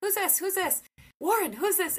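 put-on sing-song quizzing a toddler; high coaxing voice for a toddler; playful baby-talk questions.

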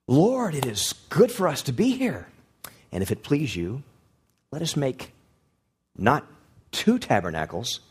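preacher mocking Peter's eager proposal. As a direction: play Peter as a self-important fool. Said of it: "Peter comes up with this wonderful, great depth of wisdom".

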